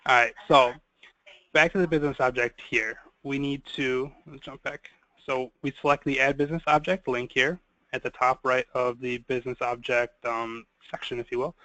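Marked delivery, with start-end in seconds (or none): 1.5-4.9 deliberately slower. Real, not acted. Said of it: "I will try to talk slower here". 5.2-11.5 softer, more measured explanation; slow down so listeners can follow; deliberately slower. Real, not acted. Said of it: "I will try to talk slower here".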